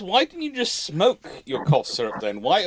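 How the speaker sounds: ordinary talk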